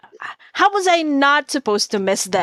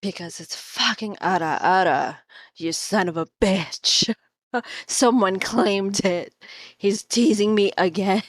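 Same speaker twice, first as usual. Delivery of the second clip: lower, softer put-on voice; deeper voice; 3 semitones lower, 3 dB quieter than usual. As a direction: drop into your deeper register, grumbling. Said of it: "just try my deeper voice".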